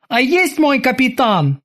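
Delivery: high, drawn-out acknowledgement; high-pitched sailor's reply; obedient bosun. Acted. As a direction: accept the order in a high, slow voice. Bosun obeys the captain.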